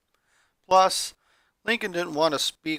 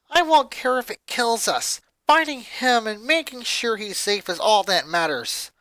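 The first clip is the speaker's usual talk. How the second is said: firm; 5 semitones higher than usual. Acted. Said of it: "Lori stated firmly".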